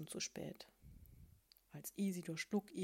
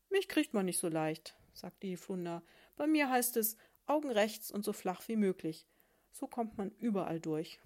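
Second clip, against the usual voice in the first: a lightly voiced, smug flounder bragging; a hint of a cocky flounder, a bit louder; boastful flounder; 4 dB louder than usual. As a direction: brag like a flat, sly fish. Flounder boasting about slipping through.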